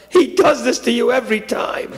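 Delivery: acted sibling resentment; resentful outburst. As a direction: complain of an old grievance. Boy resents younger brother.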